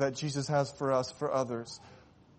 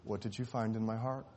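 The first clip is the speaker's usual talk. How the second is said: put-on softer, weak voice of a sick boy; very quiet question; 7 dB quieter than usual. Dying boy asks the surgeon very quietly. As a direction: barely raise the voice. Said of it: "asked very quietly".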